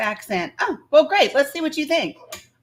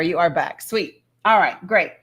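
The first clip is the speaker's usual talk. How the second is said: normal talking voice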